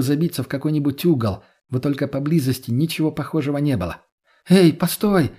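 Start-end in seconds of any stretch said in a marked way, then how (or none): 4.5-5.3 loud, higher call after someone leaving. A narrator's reading. Katya calling after Lena as she walks away. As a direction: shout after her to stop. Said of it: "крикнула Катя".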